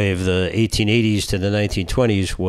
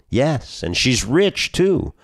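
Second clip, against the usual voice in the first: higher, eager salesman voice; eager matchmaker; 6 semitones higher, slower than usual. Acted. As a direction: sell it, rising as you go.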